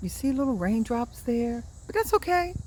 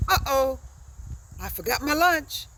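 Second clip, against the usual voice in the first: dismayed uh-oh; 6 semitones higher than usual. Shown as a demonstration. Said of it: "U H dash O H".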